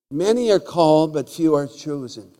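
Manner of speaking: loud proclaiming delivery; loud preacher proclaiming the verse; preached loud. Shown as a demonstration. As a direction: proclaim the verse to the back row. Repeats scripture with force.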